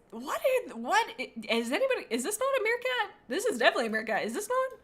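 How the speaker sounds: high, rising disbelief; baffled questioning; incredulous squeaks. Real, not acted. Confused by two meerkats.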